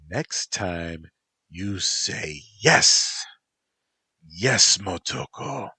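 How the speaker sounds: loud, slow commanding voice; stern command. Acted. Motoko ordering Antropos to obey, loud slow command. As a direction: drill the answer into him.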